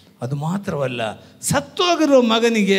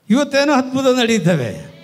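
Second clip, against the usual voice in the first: higher, louder exclamation; loud proclamation; 6 semitones higher, 7 dB louder than usual. Real, not acted. Preacher announcing today's miracle to the congregation, loud proclamation. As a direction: proclaim it to the whole hall.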